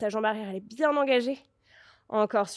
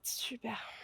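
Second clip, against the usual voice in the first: soft praise; 15 dB quieter than usual. Real, not acted. Soft praise during a slow pose.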